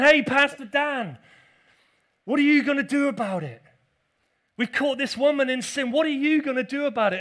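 loud demanding accusers. Acted. Accusers confront the pastor, loud and demanding. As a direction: confront the pastor, pushing for an answer. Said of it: "And they're demanding".

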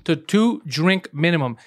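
big podcast welcome, stretching the title; show announcer. Acted. Opening the show as host.

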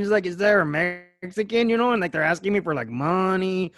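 put-on lightly lilting cholo accent; Mexican-accented mock storytelling. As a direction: keep up a casual cholo impression. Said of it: "hear people talk like this".

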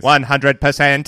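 slow and loud, every word hit; One hundred percent said slowly and loud, each word stressed; emphatic and slow. Shown as a demonstration. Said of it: "demonstrating the real meaning".

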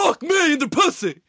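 high, hammed-up shout; mock pleasure yell. Outdoing co-host's imitation of a friend, high mock yell. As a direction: yell it like over-the-top porn dialogue.

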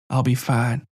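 calm, gentle reassurance. A narrator's reading. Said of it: "still speaking gently".

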